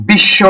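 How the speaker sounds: বিশ্ব said "bish-sho", sh held double; বিশ্ব with silent ব-ফলা and a long sh; doubled consonant. Shown as a demonstration. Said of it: "বর্ণের উচ্চারণটা হচ্ছে দ্বিত্ব".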